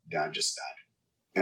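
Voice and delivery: mom's words said very slowly and softly; slow quiet retelling. Retold or imitated. Son recalls mother's call about dad, very slow and soft. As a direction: let each word drop, hushed and heavy. Mother breaking news by phone.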